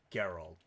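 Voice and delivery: Gerald with a hard G, like Geralt; proper pronunciation. Shown as a demonstration. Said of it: "That's how you say it".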